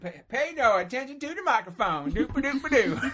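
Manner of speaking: silly high nonsense babble; goofy derp voice. Pretend. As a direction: babble it like a goof. Silly voice continues.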